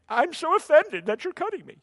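high, laughing mock outrage; mock offended patient. Pastor mocking an offended surgery patient, laughing mock whine. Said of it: "They're like".

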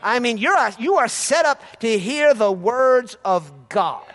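usual speaking voice

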